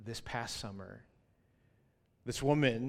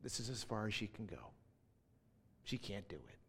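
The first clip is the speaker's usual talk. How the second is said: inner thought; 7 dB quieter than usual. Retold or imitated. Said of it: "just thinking".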